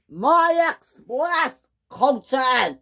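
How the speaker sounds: very slow, high lament; dismayed wail. Acted. Gordon wailing over his damaged express coaches. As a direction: stretch out the wail of loss.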